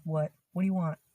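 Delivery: "What do you want?" curt, with "What" said wut; blunt wut. Shown as a demonstration. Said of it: "in that tone".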